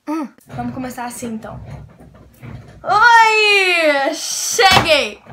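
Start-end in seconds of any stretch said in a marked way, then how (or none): 2.8-5.2 much louder, higher exclaimed arrival; big excited hello. Acted. Vlogger trying a big excited channel entrance. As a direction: burst in with a cheer. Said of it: "Foi, gostei desse".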